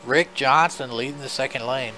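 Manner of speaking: nasal from a nosebleed; talking through a bloody nose. Real, not acted. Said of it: "I sound extra nasally right now".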